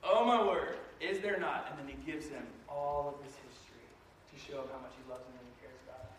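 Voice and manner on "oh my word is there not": mock exasperated father, a bit louder; God as an upset dad, exasperated. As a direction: sigh it out like a fed-up dad. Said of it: "he goes".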